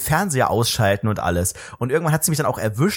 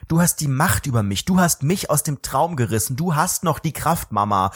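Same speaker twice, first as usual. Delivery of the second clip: slow, grandiose mock tribute; mock solemn; slower than usual. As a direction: draw it out like a pompous declaration.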